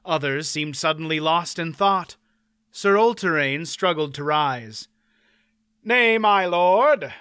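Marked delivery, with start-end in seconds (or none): 5.8-7.1 slow courtly knight. Acted. Knight stops baron.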